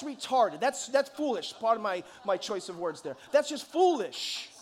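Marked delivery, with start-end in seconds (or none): 3.3-4.5 hyped up. Real, not acted. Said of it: "I'm getting fired up".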